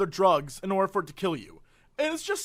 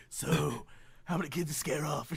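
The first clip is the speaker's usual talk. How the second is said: put-on old man voice; 5 semitones lower, 10 dB quieter than usual. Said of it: "I'm like".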